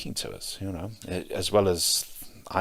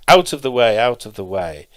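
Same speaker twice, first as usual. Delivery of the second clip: louder retold call, strong on the first cry; mahout's shout; 4 semitones higher, 10 dB louder than usual. Mahout warning the boy in his path, shouting. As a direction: act out shouting people aside. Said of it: "mahouts sitting on top shouting".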